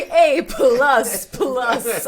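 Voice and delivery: Christmas Story grading. Retold or imitated. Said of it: "remember Christmas Story".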